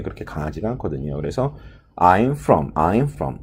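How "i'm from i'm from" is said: "from"을 세게 힘줘서; 전치사 "from"을 강하게 찍기; stressed from. Shown as a demonstration. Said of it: "from을 세게 발음하는 것은 별로 좋지 않은 발음". ("from" 강세 틀린 예)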